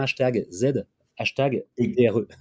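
letters spelled one by one: "Z", "D", "R", "E"; spelling it out. Shown as a demonstration. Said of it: "ça s'écrit avec un".

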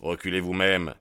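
firm, hard push on vous-même; stern cry. Acted. McMurdo defying Baldwin at gunpoint, stern cry. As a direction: throw the order back at him. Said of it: "cria-t-il".

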